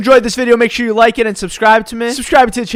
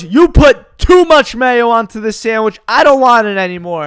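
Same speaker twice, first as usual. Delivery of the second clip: freaks out; 3 semitones higher, 4 dB louder than usual. Retold or imitated. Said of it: "legitimately freaks out".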